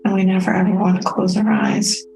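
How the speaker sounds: calm, unhurried meditation guide with long pauses; soothing, evenly paced meditation voice; guided meditation. Real, not acted. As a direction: guide listeners gently inward, leaving space between phrases. Leads a self-care meditation.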